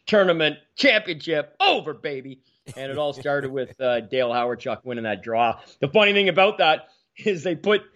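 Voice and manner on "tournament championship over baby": rising play-by-play goal call; excited call. Retold or imitated. Retelling the goal, a rising excited call.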